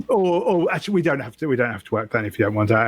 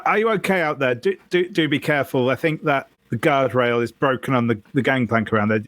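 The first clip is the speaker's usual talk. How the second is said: lightly voiced camper, a bit higher; mildly worried caller, pitched up; concerned camper; 3 semitones higher than usual. Camper calls out to whoever may have fallen in, mildly concerned. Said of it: "it comes out and says".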